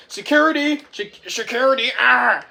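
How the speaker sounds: high, loud panicked call; mock cry for help. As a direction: yell for the guards in pretend panic. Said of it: "Guy Gagné says".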